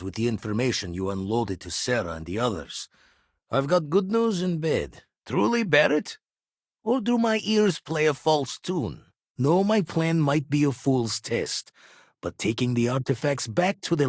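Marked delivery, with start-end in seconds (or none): 5.2-9.0 higher-pitched, disbelieving question; incredulous. Acted. Astronomer questions Barrett's news, incredulous. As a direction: question it in lifted, surprised tones.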